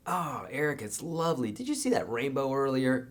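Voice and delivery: pleasant reply. Acted. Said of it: "like you would in a nice conversation".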